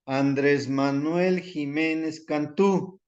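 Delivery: Andrés Manuel Jiménez Cantú slowly spelled out, every name in full; slow example name. Shown as a demonstration. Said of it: "Por ejemplo".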